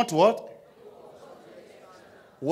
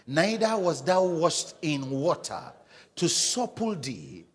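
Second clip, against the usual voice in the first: slow, relishing every word of the verse; savoring scripture reading. Shown as a demonstration. Pastor shows the congregation how to read, slow and savoring. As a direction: read it like sucking the marrow, with delight. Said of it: "So read with that, that, that de-, delight".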